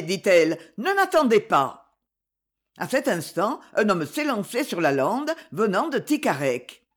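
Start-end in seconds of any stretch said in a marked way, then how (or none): 0.8-2.0 out of breath, high and pressed; winded, sending her ahead; breathless old speaker. Acted. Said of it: "tôt essoufflée".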